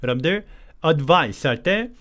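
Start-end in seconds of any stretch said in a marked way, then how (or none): 0.8-1.5 advice with every consonant spelled out, a full vowel after the d; 잘못된 발음: advice를 또박또박; wrong pronunciation. Shown as a demonstration. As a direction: sound out advice too literally. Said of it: "너무 정직하게 advice 이렇게 발음하지 마시고요".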